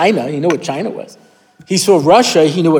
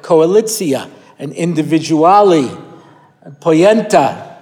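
Hebrew-accented English words; slower than usual. Shown as a demonstration. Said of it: "English with a bad accent".

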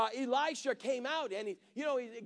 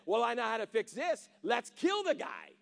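mock king's shout. King of Syria ordering his army, mock shouting. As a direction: call for the kill like a furious king. King plotting in retold story.

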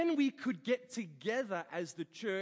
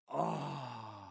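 long, low "ah"; savouring sigh; 7 semitones lower than usual. Acted. Preacher dreams of pulled pork, savouring sigh. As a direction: sigh over delicious food.

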